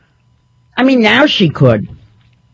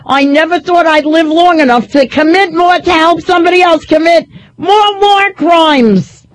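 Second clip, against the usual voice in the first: mock Kissinger accent; 5 semitones higher than usual. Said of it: "I can't do his accent".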